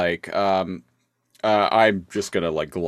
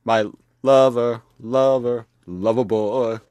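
swooning Black Arachnia; 2 semitones higher than usual. Retold or imitated.

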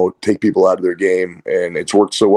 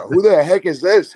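puzzled who's this; 9 semitones higher than usual. Retold or imitated. Startled by unknown caller.

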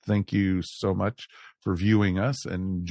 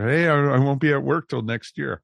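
retold corny joke; 6 semitones higher, 6 dB louder than usual. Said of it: "been doing the joke".

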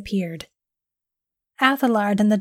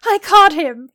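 higher, louder gleeful boast; 8 semitones higher, 8 dB louder than usual. A narrator's reading. Biologist celebrates catching the leprechaun, gleeful and loud. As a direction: crow with delight over the catch.

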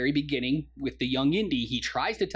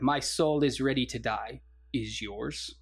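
lower, composed mock-solemn line; solemn retold reply; 3 semitones lower, slower than usual. Retelling the man answering Indy's threat, mock solemn.

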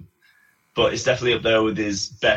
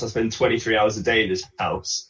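mock Marge shout. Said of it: "Marge shouts".

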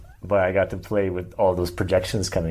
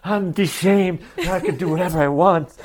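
high, loud retold declaration of freedom; exultant proclamation; 9 semitones higher, 4 dB louder than usual. Man relives his liberation from shame, exultant and hammed-up. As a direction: proclaim it with playful triumph.

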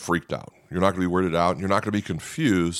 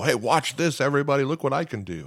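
higher, hammed-up showman calling out to a crowd; mock show-off; 6 semitones higher than usual. A mocking show-off showman, as the pastor denies Jesus acted like that. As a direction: play a cocky magician begging for applause. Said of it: "Jesus didn't come out of the heaven and go".

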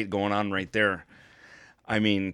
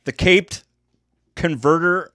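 boxing ring announcer; 3 semitones higher than usual. Acted. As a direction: call the fighter into the ring. Introducing fighter like ring announcer.

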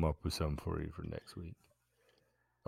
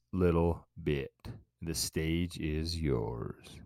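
stage introduction. Pretend. Host hands stand-up comic the stage, mock emcee introduction. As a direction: draw out the welcome like a club host.

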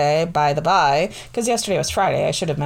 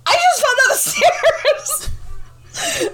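mock indignant; faster than usual. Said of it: "I literally said that".

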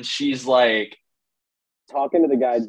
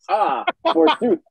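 high, theatrical Renaissance fair voice; hammy stage actor; 4 semitones higher than usual. Pretend. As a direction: ham it up like a stage knight. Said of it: "in the Ren Fair stuff".

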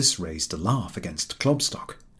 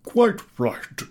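high, surprised quite right; grudging admission; 13 semitones higher, 5 dB louder than usual. A narrator's reading. Professor admitting the boy is right. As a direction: concede it. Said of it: "admitted the professor".

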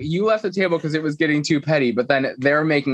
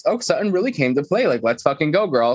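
excited, raised-pitch mock cheer; 4 semitones higher than usual. Retelling a castmate thrilled by a feud, excited voice. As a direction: hype it up as if welcoming a rival. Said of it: "I think she got excited".

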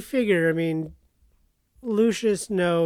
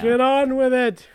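impatient; 5 semitones higher, 5 dB louder, slower than usual. Real, not acted. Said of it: "you act like you don't like recording".

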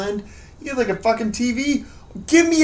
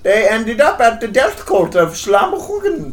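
put-on Danish accent. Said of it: "your Danish accent".

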